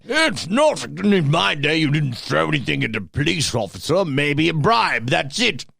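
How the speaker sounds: a hint of old-fashioned indignation; mock old-timer. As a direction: grumble like a put-on old-timer. Plays an old-timer reminiscing.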